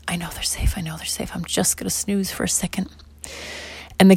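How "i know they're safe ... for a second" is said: drowsy murmur, dropping away; sleepy whisper. Acted. Tired mom dozing off, murmuring sleepily. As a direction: mumble it half asleep. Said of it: "she just said".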